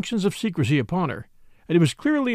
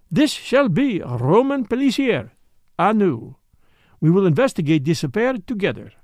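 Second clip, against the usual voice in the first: a hint of a Belgian accent, a touch higher; Poirot's light French accent; 3 semitones higher, 3 dB louder than usual. Poirot inviting Catherine to investigate, in a light French accent. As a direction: play the eager little detective with a French lilt.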